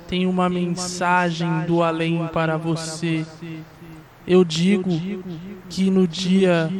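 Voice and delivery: slow, eerie ghostly voice; voice from beyond. Shown as a demonstration. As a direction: intone like a spirit messenger. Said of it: "eu posso fazer uma voz do além".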